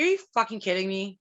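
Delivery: imitating mom brushing it off, exasperated; mom's emphatic outburst. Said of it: "she's like".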